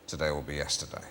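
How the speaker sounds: lightly voiced life coach, low at the close; character voice. Shown as a demonstration. Life coach passing on his pearl of wisdom, lightly voiced character. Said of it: "do it in your voice".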